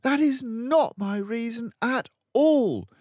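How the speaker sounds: put-on high, polite young teacher; high pleading teacher; timid teacher. A narrator's reading. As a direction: stand firm though nervous. Miss Honey protests.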